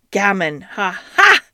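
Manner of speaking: a magpie crowing ha ha; cackling magpie. Acted. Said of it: "said the doctor".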